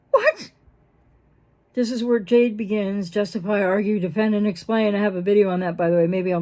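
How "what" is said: a sudden high, stunned "What?"; baffled what. Retold or imitated. Partner blindsided by a laundry accusation, stunned high "What?". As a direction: squeak it out in disbelief. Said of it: "you'll be like".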